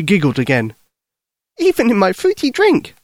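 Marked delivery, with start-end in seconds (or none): 1.6-2.9 put-on high, eager young girl; little girl voice. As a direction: speak like a worried little girl. Lucy giggly.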